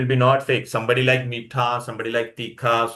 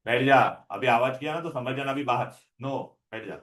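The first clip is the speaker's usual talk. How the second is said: scolding; much faster than usual. Real, not acted. Teacher scolding noisy students.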